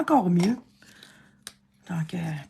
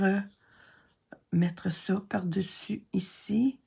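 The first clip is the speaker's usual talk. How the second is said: ordinary talk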